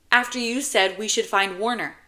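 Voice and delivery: a hint of an insistent kid; child's voice. Child James pressing with questions.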